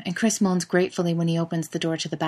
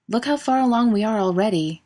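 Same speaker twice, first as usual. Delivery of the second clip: encouraging call; 4 semitones higher, 4 dB louder than usual. Acted. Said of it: "Chris calls encouragingly".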